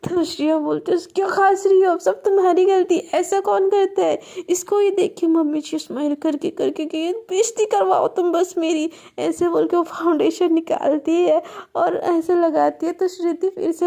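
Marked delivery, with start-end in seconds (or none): 1.0-8.9 scolding wife. Acted. Wife scolds over the love bite.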